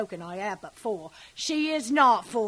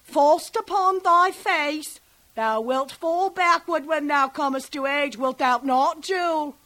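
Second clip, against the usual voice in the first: teasing husband voice, higher, louder; husband's jest; 4 semitones higher, 4 dB louder than usual. Retold or imitated. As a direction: play the jolly husband teasing baby. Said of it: "quoth my husband".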